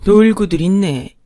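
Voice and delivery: scornful scoff. Acted. First wife scoffing at the pair's offer, scornful. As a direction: cut their generosity down with contempt.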